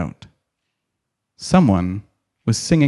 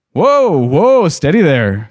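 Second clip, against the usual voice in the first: high hearty whoa; jolly old man calling out; 3 semitones higher, slower than usual. Acted. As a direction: stop them with a cheerful call. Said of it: "cried the old man".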